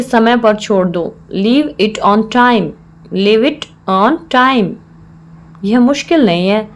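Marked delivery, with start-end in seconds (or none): 3.1-4.7 slow, word-by-word teaching delivery; slow repeat. Shown as a demonstration. Teacher repeats the English phrase for learners, slowly.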